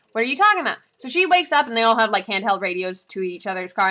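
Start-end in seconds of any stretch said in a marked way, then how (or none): 0.1-0.8 groggy confusion. Retold or imitated. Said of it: "And she's like".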